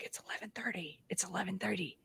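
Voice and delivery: hushed breathy whisper, like a secret. Retold or imitated. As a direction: whisper it to your coworker. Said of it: "were all like".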